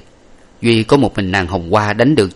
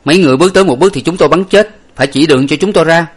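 fast, much higher and louder yell; shouted threat; 8 semitones higher, 6 dB louder, faster than usual. A narrator's reading. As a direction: bark the threat at the enemy. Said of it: "hét lớn lên". (quát lớn đe dọa, nói nhanh)

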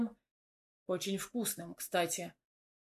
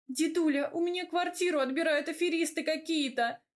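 whiny complaint; 7 semitones higher than usual. A narrator's reading. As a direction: complain like a wronged little girl. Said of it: "Начала жаловаться".

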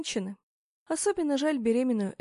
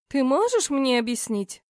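little princess; 5 dB louder than usual. Acted. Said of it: "капризно протянула".

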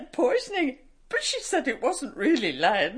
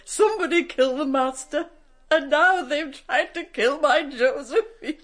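tearful. Acted. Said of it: "Don't cry, Nanny".

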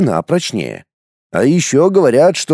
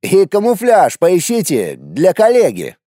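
higher mocking order; 6 semitones higher than usual. A narrator's reading. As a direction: tease while giving orders. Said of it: "насмешливо посмотрев на меня".

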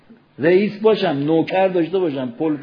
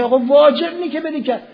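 higher, chuckling teasing; laughing reassurance; 10 semitones higher, faster than usual. Retold or imitated. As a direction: laugh it off for a friend. Friend laughs off the worry.

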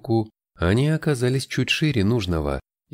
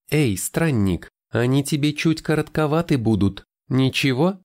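put-on higher, teasing young woman voice; бойкая девушка; 6 semitones higher than usual. A narrator's reading. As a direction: tease him, brightly. Тайра voiced in narration. (бойкий девичий голос)

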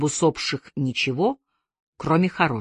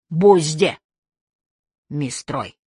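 grinning; 3 dB louder, slower than usual. A narrator's reading. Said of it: "осклабился австралиец".

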